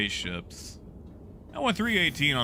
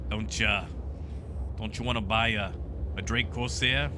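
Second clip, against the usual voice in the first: lightly voiced dodgy dealer coaxing a customer; a hint of a shady pusher, wheedling for one more sale; questionable drug dealer. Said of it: "that's my questionable drug dealer voice there".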